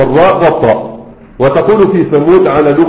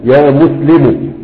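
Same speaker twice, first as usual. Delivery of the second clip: slow demo; much slower than usual. Shown as a demonstration. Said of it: "لو أنت قلت يا مسلم".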